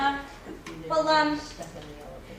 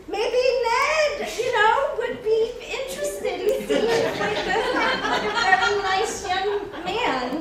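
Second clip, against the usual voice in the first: playful teasing; 5 semitones higher, 4 dB louder than usual. Acted. Matchmaking Ned and Edwina.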